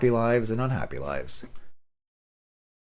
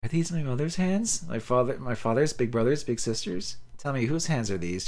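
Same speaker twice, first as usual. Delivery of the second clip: joyful wonder; 5 semitones higher than usual. Acted. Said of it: "she asks joyfully".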